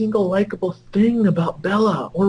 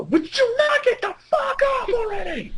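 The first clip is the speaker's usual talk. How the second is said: exasperated outburst; 14 semitones higher than usual. Real, not acted.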